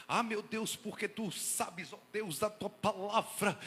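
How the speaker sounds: hammed-up wailing prayer that builds to a loud cry; mock groveling prayer. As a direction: ham up a self-pitying believer begging God. Mocking a self-abasing prayer.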